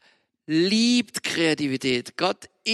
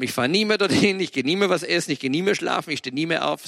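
stressing each nie mehr; imitating a raging boy; mock furious rant; faster than usual. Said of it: "Moritz tobt und schreit".

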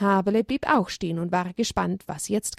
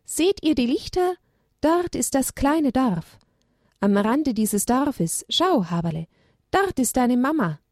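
higher, gentle owl voice guiding the way; kindly owl; 5 semitones higher than usual. Acted. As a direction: point out the lights to the little ones. Owl guiding the little herd. (freundliche Eule, etwas höhere Stimme)

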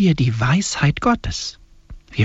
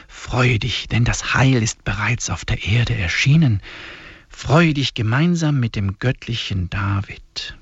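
solemn, measured liturgical reading; hymn recitation; 3 semitones lower than usual. Acted. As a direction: intone each line like a prayer. Reads the hymn aloud.

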